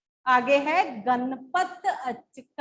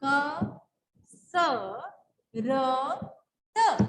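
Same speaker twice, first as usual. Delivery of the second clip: letter by letter; much slower than usual. Shown as a demonstration. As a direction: sound out each letter with pauses. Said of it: "इन शब्दों को जोड़िए, क्या बनेगा?". (हर अक्षर अलग अलग)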